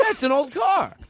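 Jay Leno impression. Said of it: "Jay's like".

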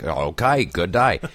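lightly put-on Aussie accent; casual mock-Australian greeting. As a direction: retell it with a touch of Australian. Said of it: "We should do Australian".

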